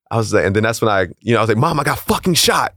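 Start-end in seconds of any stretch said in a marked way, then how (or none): 1.6-2.7 finally losing patience with her; exasperated insisting. Retold or imitated. Son insisting to doubtful mom he's shot, exasperated. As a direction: pitch jumps much higher, pushing hard on fucking.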